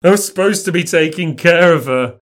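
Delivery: high, loud tearful outburst; weeping, broken down. Acted. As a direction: struggle to get it out through tears. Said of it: "He breaks down, weeping, struggling to speak".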